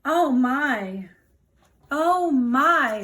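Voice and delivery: mild frightened gasp; scared mouse. Acted. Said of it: "said the mouse".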